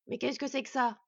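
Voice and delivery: loud, taken-aback dwarf; appalled surprise. Acted. Dwarf recoiling from the boy, loud and appalled. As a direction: demand to know, taken aback.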